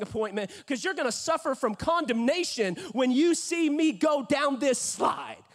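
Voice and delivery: cocky mock boasting, building to a shout; trash talk. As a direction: brag at your brothers, swelling to the last words. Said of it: "absolutely talking trash to my brothers".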